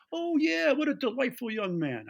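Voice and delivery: very high, hammed-up upper-crust gentleman; Fritz. Boss recalls the kid in the hallway, high mock boarding-school delight. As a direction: gush politely in a mock Thurston Howell voice. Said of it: "Fritz talked like Thurston Howell the third".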